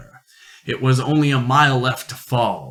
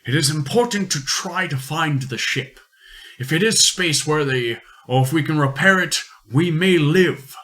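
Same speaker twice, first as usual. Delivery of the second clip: higher, urgent explorer voice; 5 semitones higher than usual. Acted. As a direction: press him on, firm and urgent.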